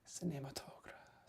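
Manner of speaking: Cinematograph whispered, slow, with a French ending; trying French pronunciation. Shown as a demonstration. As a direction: Cinematograph slowly, softly, in a French style. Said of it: "coach me on how to say".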